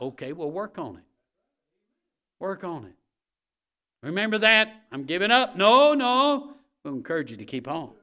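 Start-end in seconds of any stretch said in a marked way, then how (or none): 4.0-5.6 high, loud mock exasperation; hammed-up voice of someone giving up; quitter's loud outburst. Voicing someone ready to quit. 5.6-6.6 high, shouted protest; loud, urgent preacher's objection; emphatic refusal. Acted. Preacher answering the would-be quitter.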